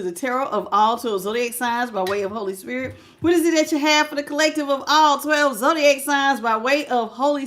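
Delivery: earnest prayer, steady and reverent; spoken prayer calling on spirit guides; opening prayer. Real, not acted. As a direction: pray over the reading before it starts. Opening prayer before reading cards.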